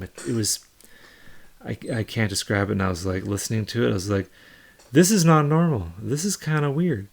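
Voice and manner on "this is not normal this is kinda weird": alarmed disbelief. Retold or imitated. Alarmed at hearing hallucinations.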